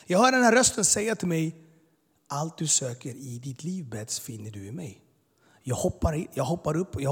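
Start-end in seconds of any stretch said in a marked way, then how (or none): 2.3-5.0 slow and hushed, gently tender; slow, soft retelling of a tender voice; soft, loving voice. Retold or imitated. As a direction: speak it like a loving voice in the dark. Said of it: "en mjuk, kärleksfull ton".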